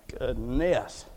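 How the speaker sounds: low, soft muttered GOODNESS; restrained mild exasperation. Acted. Preacher voices frustrated believer to the Lord, restrained exasperation. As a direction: say GOODNESS low and under control. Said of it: "let me rephrase and reframe".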